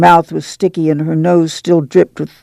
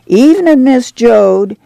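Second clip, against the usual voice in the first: calling a greeting; 7 semitones higher, 3 dB louder than usual. A narrator's reading. Neighbour recognizes the mother passing the tents, calling out. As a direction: sing out the greeting, much higher in pitch.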